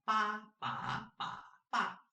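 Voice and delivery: "ba" level, rising, dipping, then falling; four tones. Shown as a demonstration. Teacher demonstrates combining ba with each tone, level, rising, dipping, falling. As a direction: run "ba" through four pitch shapes. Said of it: "first tone, second tone".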